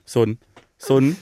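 "Sonn" cut short with ending dropped; mock the dialect, "Sonn" without final e; local mispronunciation. Partner mocking village schoolchildren, dialectal "Sonn". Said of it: "einfach nicht sprechen können".

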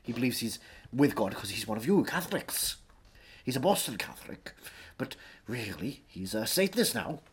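lightly voiced Welsh thespian holding forth; Anthony Hopkins. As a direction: lecture as a mock-grand Welsh actor.

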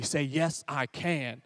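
put-on low, soft prompt to a toddler; gently feed him the phrase, voice down; soft coaching. Dad coaches his two-year-old to repeat it, low and soft. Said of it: "Say it louder".

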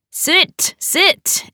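high and eager; happy. A narrator's reading. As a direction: wave her into the seat with glee. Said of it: "Eddie said happily".

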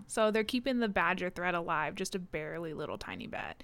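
hushed whispered aside; whispering. Real, not acted. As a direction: whisper it conspiratorially. Unvoiced conspiratorial aside.

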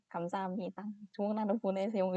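mumbled through pursed lips; marbles in mouth. Shown as a demonstration. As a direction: lips pushed out, words mushed. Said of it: "입을 잔뜩 오므려가지고".

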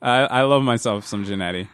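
a little tipsy from wine. Real, not acted. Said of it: "This red wine's really hitting me".

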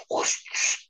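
hushed whooshing noise with the mouth; imitated whooshing. Storyteller imitating what the kids suddenly heard, whooshing. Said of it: "and we just hear".

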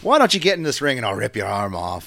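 put-on sweet Southern accent with a threat. Imitating Becky's sudden Southern accent, hammed-up. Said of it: "busts out with the Southern accent".

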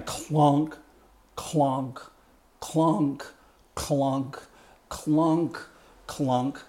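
slow, drawn-out clonk sounds; heavy slow clock strikes. Shown as a demonstration. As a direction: mimic a big pendulum swinging slowly. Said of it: "If it's down the bottom".

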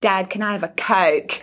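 put-on a light Australian accent, toddler asking dad for a Coke. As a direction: imitate an Aussie accent lightly. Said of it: "talk to my partner with an Australian accent".

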